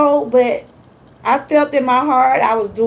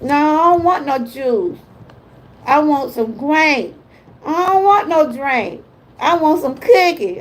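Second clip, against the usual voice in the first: imitating granddaughter; 3 semitones higher than usual. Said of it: "my little granddaughter, she might say".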